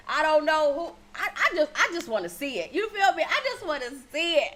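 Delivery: laughing. Real, not acted. Laughs at the drama.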